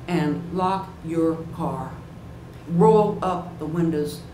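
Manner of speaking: slow, deliberate ranger instructions; slow warning. Retold or imitated. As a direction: spell out the warning slowly. Ranger warns the nervous visitor.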